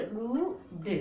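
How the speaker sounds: "रूड" with long oo, d apart; sounded out. Shown as a demonstration. Teacher closes the drill, sounded out "रूड". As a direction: stretch "रू" and release the d after it. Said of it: "तो क्या पढ़ोगे".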